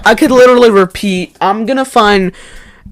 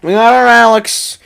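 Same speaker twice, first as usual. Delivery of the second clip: excited shout; 7 semitones higher, 4 dB louder than usual. Real, not acted. Celebrating a new cast member.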